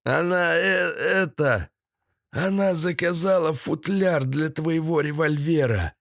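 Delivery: hesitant, high-voiced captive; snorted out. A narrator's reading. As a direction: squeeze out a reluctant confession. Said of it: "будто высморкнул фразу Седой".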